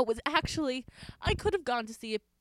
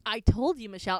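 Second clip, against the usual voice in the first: calmly. Retold or imitated. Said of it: "And I said it very calmly".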